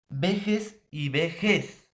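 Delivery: primero "vejez" como VE-jes, luego ve-JEZ, despacio; contraste de acento. Shown as a demonstration. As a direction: separa las dos palabras, moviendo el golpe de VE a JEZ en "vejez y vejez". Contrasta lentamente dos parónimos por acento. ("vejez y vejez" lento, cambiando la sílaba acentuada)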